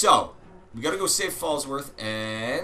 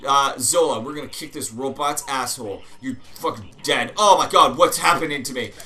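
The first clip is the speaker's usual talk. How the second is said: loud, high, excited sign-off; hyped outro; 5 semitones higher, 10 dB louder than usual. Real, not acted. Host teasing the next episode to viewers, hyped and loud. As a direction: pump the viewers up for next time.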